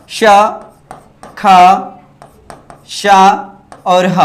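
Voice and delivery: श, ख, श, ह breathed out one at a time with pauses; sounding out sounds. Shown as a demonstration. Teacher to students, showing slightly open sounds, breathy hissed श ख श ह. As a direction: hiss each of श ख श ह with the mouth slightly open. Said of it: "ईसत विवृत में क्या आ जाता है".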